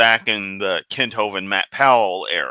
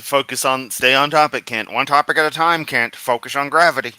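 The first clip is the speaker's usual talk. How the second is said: scolding; 4 semitones higher, 3 dB louder than usual. Real, not acted. Scolding Kent to focus.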